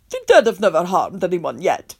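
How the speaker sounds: calm. Acted. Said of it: "he said calmly".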